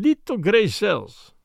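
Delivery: put-on slow, accented, falling statement of a Belgian sleuth; Belgian detective's pronouncement. Belgian detective states his watchword.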